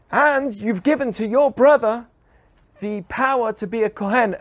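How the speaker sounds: retold rebel's indignant protest; Korach's complaint. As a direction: accuse him of grabbing everything. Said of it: "And he says to Moses".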